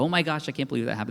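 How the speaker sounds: astonished, surprised exclamation. Retelling looking at the camera after something happened: imitating own surprised reaction. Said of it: "Something surprising would happen".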